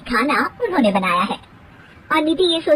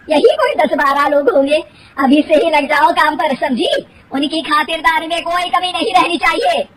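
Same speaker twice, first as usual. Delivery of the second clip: bossy mother-in-law; 3 semitones higher, 5 dB louder than usual. Acted. Mother-in-law orders bahu.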